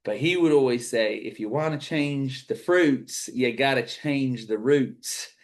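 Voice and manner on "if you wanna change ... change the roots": put-on slow, drawn-out hammy American accent; bad American accent. Coach quoting Zig Ziglar to his audience, bad Southern American accent. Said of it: "I will do my worst American accent here".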